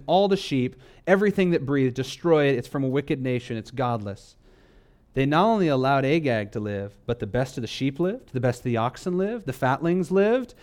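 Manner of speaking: ordinary talk, nothing marked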